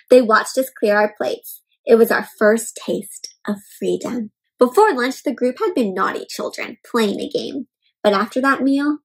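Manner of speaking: steady storybook reading voice; story narration. Acted. Teacher reading a picture book to kids, calm storybook narration. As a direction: read the tale out to the class.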